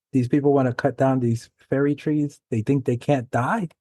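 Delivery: put-on a light, half-hearted try at an Irish accent; attempted Irish accent. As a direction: lightly imitate an Irish documentary speaker. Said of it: "I can't do that Irish accent".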